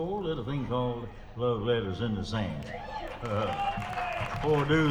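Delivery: lightly voiced old crooner greeting folks; a hint of a singer's easy stage patter; impression of a singer. Singer imitating another singer greeting the crowd, light impression. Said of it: "a singer".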